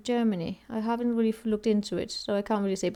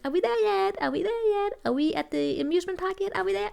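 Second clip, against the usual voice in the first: put-on high whiny kid voice, over and over; nagging child; 10 semitones higher than usual. Child nags parent about the amusement park, high whine. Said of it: "child is just".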